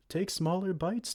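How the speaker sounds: amused whispered warning; laughing whisper. Acted. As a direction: giggle through a breathy whisper. Laughing while watching them eat.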